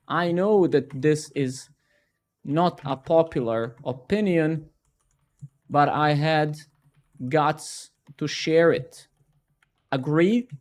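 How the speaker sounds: slow, falsely brave confession; hammed-up humble-brag, slow; mock LinkedIn poster. Shown as a demonstration. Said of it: "I'm gonna demonstrate LinkedIn".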